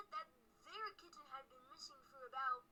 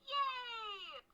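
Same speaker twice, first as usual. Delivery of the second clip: sarcastically bright and louder; mock cheerful; 6 semitones higher, 10 dB louder than usual. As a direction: fake cheer, louder and higher. Mock-cheery sign-off in video.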